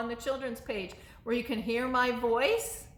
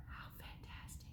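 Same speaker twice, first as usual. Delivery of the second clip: whisper; 21 dB quieter than usual. Real, not acted. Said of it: "whispered aside".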